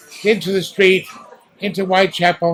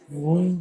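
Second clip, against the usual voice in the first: a lower, softer wail, the all clear; gentle all-clear siren; 3 semitones lower, 7 dB quieter than usual. Retold or imitated. Showing the interviewer the softer all-clear siren, low and soft. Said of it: "it was more".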